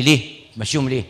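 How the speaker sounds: annoyed objection. Retold or imitated. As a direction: push back at the priest, irritated. Sick father objects angrily. (الأب المريض يعترض على الكاهن بضيق)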